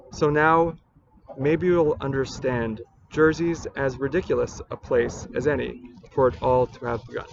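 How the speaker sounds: measured, deliberate poem recital; poetry reading. Acted. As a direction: read it as verse, pausing between phrases. Reads a poem aloud.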